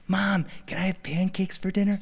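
lightly voiced kid asking permission; hopeful child. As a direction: ask mom gently, full of hope. Child asks mother softly.

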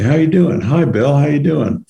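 a quick hi that means nothing; automatic greeting. Retold or imitated. Passing Bill in the hall, breezy high throwaway greeting. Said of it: "what I'm just saying is, "Hi".

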